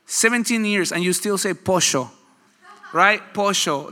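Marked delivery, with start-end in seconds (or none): 1.5-2.1 put-on Argentinian accent. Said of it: "That's so Argentinian". 3.3-3.9 put-on Argentinian accent. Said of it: "That's so Argentinian".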